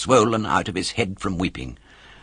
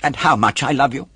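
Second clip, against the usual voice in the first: grateful puppet; 5 semitones higher, 4 dB louder than usual. A narrator's reading. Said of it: "said the puppet, drying his eyes".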